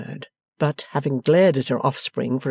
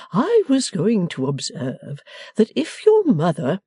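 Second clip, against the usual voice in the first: slow, higher, hesitant voice; craven faltering; 6 semitones higher, slower than usual. A narrator's reading. Cherubic father stalling before going home, craven and faltering. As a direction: stall timidly, drawing it out. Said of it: "faltered with something of a craven air".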